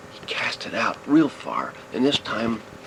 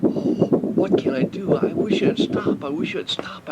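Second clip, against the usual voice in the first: frightened plea; 8 semitones higher, 5 dB louder than usual. Acted. Boy panicking in storm.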